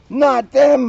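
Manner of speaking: high, loud squeak of alarm. A narrator's reading. Mona squeaking as Leona's gang appears, high alarm. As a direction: squeak it out in fright. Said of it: "Mona squeaked".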